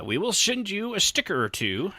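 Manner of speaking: usual speaking voice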